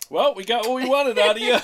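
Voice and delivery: loud, high, laughing punchline; triumphant producer. Retold or imitated. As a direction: call it out as the satisfied producer.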